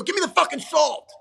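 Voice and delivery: yelled high and loud, a hammed-up family shout; family yelling. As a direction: bark it across the dinner table, half joking. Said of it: "everybody fucking yelled at each other".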